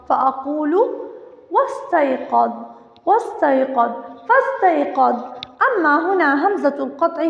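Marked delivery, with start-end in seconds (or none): 1.5-5.1 "واستيقظ" and "فاستيقظ" glided straight into the s, no glottal stop; silent linking hamza. Shown as a demonstration. Teacher showing pupils the linking hamza, silent alif in "واستيقظ" and "فاستيقظ". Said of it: "لا تلفظ".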